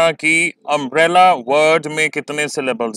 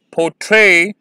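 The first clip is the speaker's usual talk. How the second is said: पोर्ट्रे with ट्रे louder and longer; stress on second syllable; 3 semitones higher, 4 dB louder than usual. Shown as a demonstration. Teacher presents the next word to students, second-syllable stress. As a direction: hit ट्रे firmly in पोर्ट्रे. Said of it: "second syllable पर ज़्यादा emphasis".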